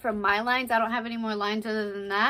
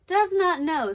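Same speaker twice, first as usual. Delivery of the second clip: exclaiming stage pirate; 8 semitones higher, 6 dB louder than usual. Acted. Scornful reply in the play.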